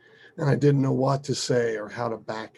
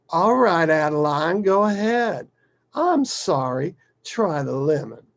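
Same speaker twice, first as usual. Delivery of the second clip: exasperated father giving in; 6 semitones higher, 7 dB louder than usual. Retold or imitated.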